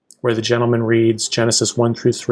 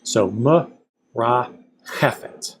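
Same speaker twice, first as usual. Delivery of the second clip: "chefet" stressed on "che", slowly spelling out the syllables; for students, teacher shows stress on the syllable before last. Shown as a demonstration. Slow "ra, chefet" with stress on "che". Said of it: "accented on the syllable before the last".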